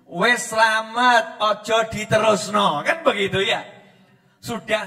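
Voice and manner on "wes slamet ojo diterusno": calm blessing. Retold or imitated. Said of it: "terus saya ucapkan".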